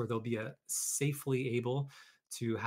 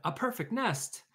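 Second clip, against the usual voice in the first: high, thrilled chicken voice; delighted chicken; 10 semitones higher than usual. Acted. Chicken admires the nest, high excited voice. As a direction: gasp it with wonder. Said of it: "she cried".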